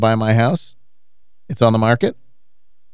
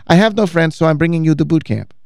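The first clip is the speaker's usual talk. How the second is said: imitated cleaning lady, higher and nice; angelic voice; 5 semitones higher than usual. Cleaning lady inviting her client, imitated angelic voice. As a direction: put on her sweet, higher voice. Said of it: "she said it so nicely in this sort of angelic voice".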